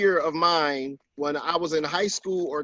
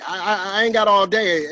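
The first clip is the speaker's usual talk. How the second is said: louder, higher mock impatience; disrespectful boyfriend; 4 semitones higher, 4 dB louder than usual. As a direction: imitate a rude boyfriend hurrying his girlfriend. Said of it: "that was disrespectful enough".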